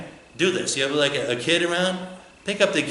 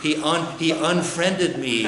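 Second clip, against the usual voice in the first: mock whining. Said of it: "we're down here like this".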